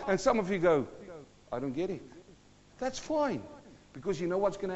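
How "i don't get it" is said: low, soft deadpan reply; quiet mock bafflement; puzzled listener. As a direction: undercut the excitement with a small voice. Acts puzzled congregation's reply.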